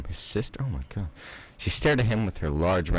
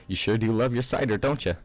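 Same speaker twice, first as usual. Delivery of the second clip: Applejack voice; 3 semitones higher, faster than usual. Acted. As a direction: play the spunky farm girl. Applejack speaking again.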